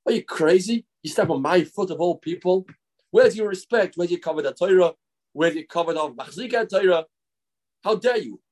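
half-hearted yelling, building in outraged questions; mock angry screaming. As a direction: act out an offended big shot's rage. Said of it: "he screamed at the guy".

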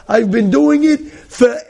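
proud old lady insisting, lightly voiced; stubborn grandmother. Grandmother refuses store food, mild indignant old voice.

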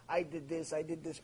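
hushed, ashamed admission to God; quiet confession. Retold or imitated. A penitent quietly confessing to Hashem. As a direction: drop your voice to a guilty murmur.

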